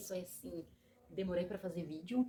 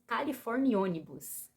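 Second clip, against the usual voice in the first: apelido arrastado; 3 semitones higher, 5 dB louder, slower than usual. Acted.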